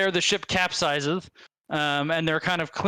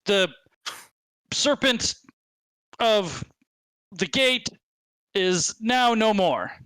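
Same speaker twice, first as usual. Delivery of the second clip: blustering goblin; 3 semitones higher than usual. Acted.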